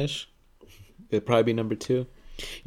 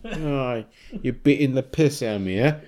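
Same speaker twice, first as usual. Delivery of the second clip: louder caricature British complaint; mock British accent; 3 semitones higher, 5 dB louder than usual. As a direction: grumble it as a mock Brit. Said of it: "They sound like the British sound like to us".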